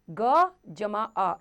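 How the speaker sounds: ग जमा आ drawn out slowly, piece by piece; slow spelling demo. Shown as a demonstration. Teacher spelling letters slowly for children. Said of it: "ये देखिए".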